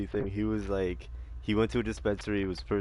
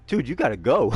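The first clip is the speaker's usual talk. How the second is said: raised, urgent voice of the dealer; mock-urgent dealer telling him to go; urgent warning; 3 semitones higher, 8 dB louder than usual. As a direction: warn him loudly to leave now. Retold dealer warning stoned buyer.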